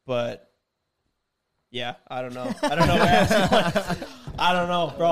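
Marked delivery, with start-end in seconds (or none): 2.6-5.1 laughing through the words; giggling while speaking. Real, not acted. Laughing at forgetting.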